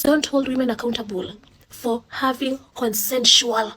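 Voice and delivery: slow, leaning hard on "consensual"; stress on consensual. Shown as a demonstration. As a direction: hit the word "consensual" and draw it out. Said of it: "emphasis on the word consensual".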